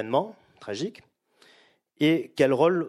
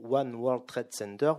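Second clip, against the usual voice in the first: English accent; slower than usual. Real, not acted. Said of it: "Vous excuserez mon accent anglais".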